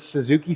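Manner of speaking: "Suzuki" said for tzatziki, with an oo in it; mispronunciation. Real, not acted. Cook fumbling the sauce's name, mispronounced as "Suzuki". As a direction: get tzatziki wrong as "Suzuki". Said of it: "I know that's not how it's pronounced".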